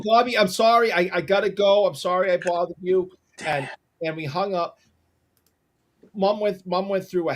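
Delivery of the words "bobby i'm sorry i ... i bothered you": flustered apology. Retold or imitated. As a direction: retell apologising to get off the phone. Retold flustered apology to Bobby.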